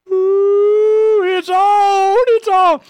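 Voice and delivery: high, thrilled ooh; gleeful rising anticipation; excited. Real, not acted. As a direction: relish the fight coming. Excited at thought of ally.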